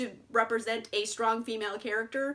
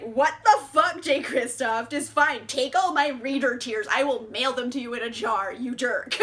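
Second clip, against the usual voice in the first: exasperated rant, louder than usual; mock outraged rant; 5 dB louder than usual. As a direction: rail at the author half in jest, laughing at the end.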